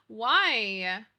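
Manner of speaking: a hammed-up crying why; mock wail. Mom asking kids why they hate dinosaurs, mock crying. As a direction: whimper it like a heartbroken mom. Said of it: "I'm like".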